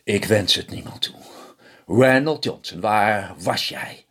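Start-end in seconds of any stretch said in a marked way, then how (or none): 1.9-4.1 scolding wife. Acted. Wife confronts husband coming home late.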